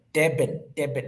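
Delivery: "Durban" in a put-on South African accent; South African accent, first vowel as "eh". Shown as a demonstration. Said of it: "say it with a South African accent".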